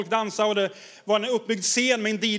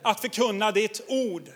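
prayer; slower than usual. Retold or imitated. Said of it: "Och så säger de som här".

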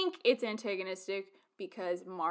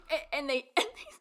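laughing, higher; 13 semitones higher, 4 dB louder than usual. Real, not acted. Fan describing the singing, laughing high. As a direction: giggle through it.

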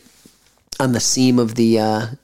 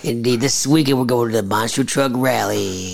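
lightly voiced rally announcer; monster truck ad; 3 semitones lower than usual. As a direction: hype the rally like a radio ad. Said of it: "You're doing that voice all morning".

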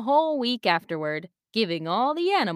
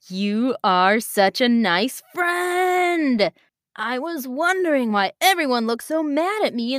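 excited lion voice; 4 semitones higher, 4 dB louder than usual. Acted. Lion Kavi voiced in story.

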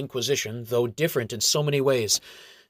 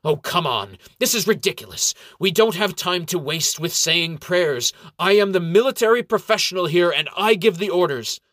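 loud, higher exasperated protest; outraged; 7 semitones higher, 6 dB louder than usual. A narrator's reading. Ranger outraged at the clerics' praying, loud and fed up. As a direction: explode at the wasted time. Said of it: "throws his hands up with outrage".

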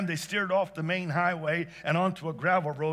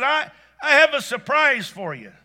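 excited surprise; 9 semitones higher, 9 dB louder than usual. Acted. Wife springing a surprise on husband.

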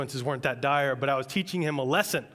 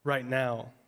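whiny demand; much slower than usual. Retold or imitated. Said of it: "And we say".

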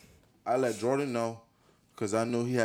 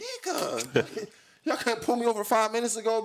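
laughing complaint; 11 semitones higher, 4 dB louder than usual. Retold or imitated. Mocking police stop, retold.

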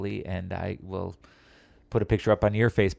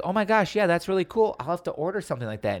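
mock girl voice; 7 semitones higher, faster than usual. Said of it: "she goes".

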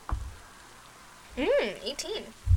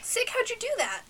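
high-pitched curious character voice; in-character wonder; 10 semitones higher than usual. Acted. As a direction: ask a companion in a high voice. Player speaks in character to Sick.

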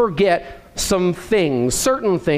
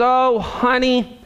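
disappointed; 3 semitones higher than usual. Retold or imitated. Wife gently scolding husband over forgotten order, mild mock disappointment. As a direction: sigh it out as a gentle letdown. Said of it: "with disappointment in her voice".

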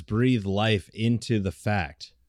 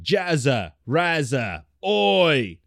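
put-on Aussie slang samples; mock Australian voice; Australian accent; 4 semitones higher, slower than usual. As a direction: demonstrate broad Australian slang. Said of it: "pretty good Australian accent".

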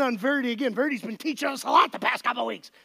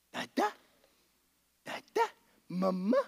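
put-on soft coaxing baby talk; 8 semitones lower, 6 dB quieter than usual. Dad coaxing baby to say dada.

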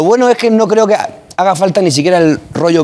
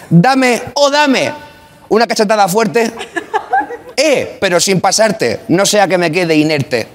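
grand poetry declamation; 2 semitones higher than usual. Pretend. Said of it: "Voy a marcar, eso sí, mucho las últimas sílabas".

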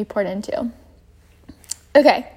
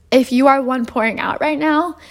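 a real crack in the voice. Real, not acted. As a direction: voice cracks mid-sentence. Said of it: "my voice just cracked".

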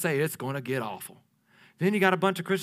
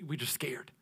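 whispered fear; 5 semitones lower, 16 dB quieter than usual. Retold or imitated. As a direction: whisper it, scared and hushed.

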